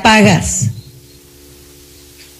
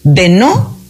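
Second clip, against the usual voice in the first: slow dramatic phrasing; 3 semitones higher, much slower than usual. Shown as a demonstration. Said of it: "slowed, dramatic phrasing".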